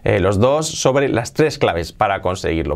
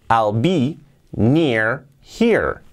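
very slow, each word set apart; slow word-by-word model; much slower than usual. Shown as a demonstration. English teacher modelling the phrase for learners, slow word-by-word. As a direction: spell out the phrase slowly, pausing between words. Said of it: "La entonación".

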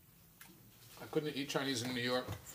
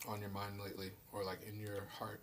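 soft, low, intimate ASMR hush; right in your ear; 5 semitones lower, 10 dB quieter than usual. Pretend. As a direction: lean in close and murmur. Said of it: "lean in close to the mic and whisper".

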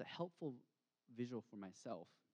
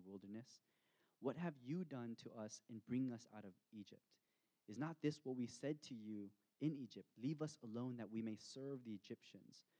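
a mild complaining edge on the quote; grumbling read aloud. Shown as a demonstration. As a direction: read it as a slightly bitter grumble. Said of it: "And so grumbling sounds like this".

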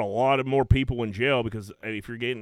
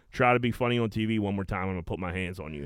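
low, quick threat at the end; dead serious Shaq; 4 semitones lower, faster than usual. Retold or imitated. Shaq warning Kenny about his jokes, dead serious. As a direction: deliver a stern warning without raising your voice. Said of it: "Shaq looked at him dead serious".

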